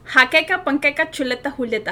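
brisk, linked-up recitation; quick tongue twister. Shown as a demonstration. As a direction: rattle the words off in one go. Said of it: "tiene que ser rápido".

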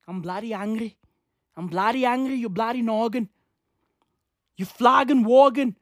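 mock-angry fake Irish accent; botched Irish accent. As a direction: play an irate Irishman with a messed-up accent. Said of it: "my accents are all the way fucked up".

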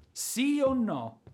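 loud slow ultimatum; insistent demand. Acted. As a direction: press her hard for an answer. He demands her answer.

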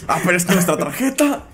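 salesman's pitch rising high on the punchline; mock sales agent. Friends mocking a bank agent's pitch, high mock salesman. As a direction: ham up a pushy card seller.

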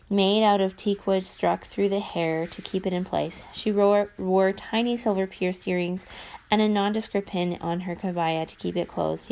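even, careful book reading; reading aloud. Acted. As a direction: read the passage to your viewers. Reads novel aloud on camera.

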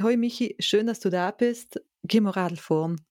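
a hint of an inviting host; friendly host greeting.

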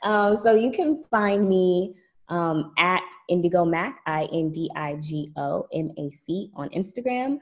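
poised like a pageant contestant; pageant girl voice. Pretend. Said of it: "my pageant girl voice".

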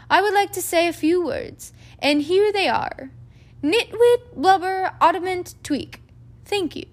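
put-on high, grand, eccentric old wizard; Dumbledore voice. A narrator's reading. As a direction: beam and announce nonsense grandly.

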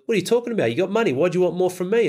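imitating a dad snapping at his son, high-pitched; a retold outburst of a livid father. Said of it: "So dad gets livid".

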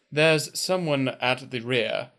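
dry, witty, slow AI butler; deadpan British assistant voice; polite butler robot. Acted. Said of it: "it's kind of dry and witty".

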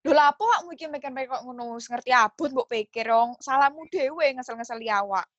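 Surabaya-style Javanese accent; demonstrating a mildly rough Javanese dialect; slightly coarse Javanese. Shown as a demonstration. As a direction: say it in blunt, everyday Surabaya Javanese. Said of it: "Itu agak kasar ya".

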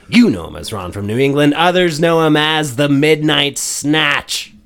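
dramatic host introduction; announcer. Acted. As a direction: ham it up like a showman. Mock-ominous podcast intro.

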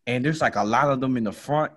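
ordinary talk, nothing marked

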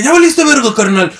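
a hint of a thug holding you up; robber threat. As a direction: snap it out like a street robber. Robber voiced in story.

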